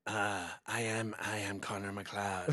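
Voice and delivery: put-on thick French accent, slow and low-key; Scottish hero line in a heavy French accent. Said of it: "it just came out like".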